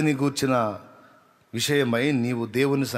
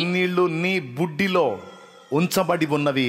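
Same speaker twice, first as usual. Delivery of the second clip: slow recitation; 4 semitones higher than usual. Acted. Psalm recited slowly.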